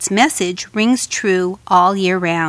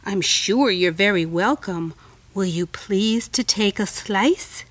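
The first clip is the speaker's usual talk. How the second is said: coaxing spider voice. Acted. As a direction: lure her gently like a spider. Spider flattering fly.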